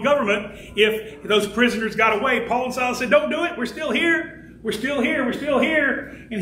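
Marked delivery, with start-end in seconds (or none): 3.1-6.3 higher-pitched, mildly urgent reassurance; urgent calling out. Acted. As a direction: call out to stop someone, lightly acted. Acts Paul and Silas calling out.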